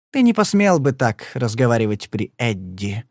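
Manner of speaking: calm, cold-blooded remark; cool, composed. Acted. Marti coolly reminds Padler of Eddie. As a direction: say it coolly, unbothered. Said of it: "хладнокровно заметила она".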